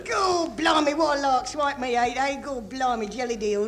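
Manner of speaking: put-on broad Cockney accent, cheeky and jokey; Cockney private. Cockney soldier in the trenches joking about his mother-in-law in Cockney. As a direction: lay on the Cockney banter. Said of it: "the colourful Cockney humour".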